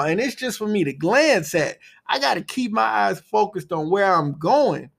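rally listeners with a lilting motivational monologue; motivational speech. Acted. Host urging listeners to stop playing small, motivational speech.

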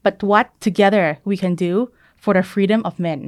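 put-on very slow speech quote in a Thai accent; Thai-accented English quote. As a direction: recite JFK slowly with a Thai accent. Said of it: "พยายามดัดสำเนียงให้ดูเป็นไทยๆ". (อ่านสุนทรพจน์ช้าๆ สำเนียงไทย)

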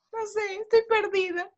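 slow, high, tearful whine; mock crying. Lost and drunk, whining to Yair on the phone, mock crying. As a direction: wail it like a lost drunk girl.

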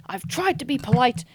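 put-on a light, unsure Geordie accent. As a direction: try out a Geordie accent on the quote. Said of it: "I don't know what accent I'm doing for Geordie".

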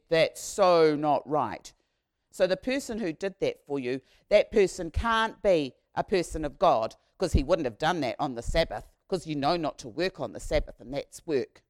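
loud, indignant rant about the Sabbath; indignant condemnation. Acted. Synagogue leaders condemning work on the Sabbath, loud and indignant. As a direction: scold like an outraged religious official.

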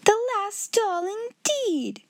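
high, indignant mockery; scornful echo. A narrator's reading. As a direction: throw the words back in disdain. Headmistress mocks the girl's words.

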